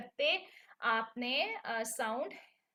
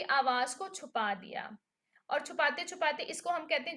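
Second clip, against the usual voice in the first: whisper; 2 semitones higher than usual. Acted. Explaining hiding the sound.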